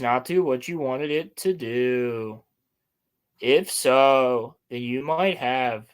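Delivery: slow, rising questioning voice; lightly imitating a slow uptalker. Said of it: "Every sentence sounds like a question with him".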